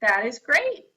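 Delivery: excited demo; emphatic exclamation. Shown as a demonstration. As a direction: say it like you mean it. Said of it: "Emphatic declaration".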